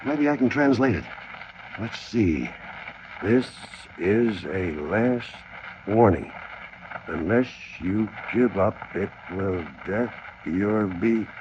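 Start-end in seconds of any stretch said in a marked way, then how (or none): 3.2-11.3 slow, word-by-word reading; slow halting translation. Acted. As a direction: stumble through the translation slowly. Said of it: "that's not quite right".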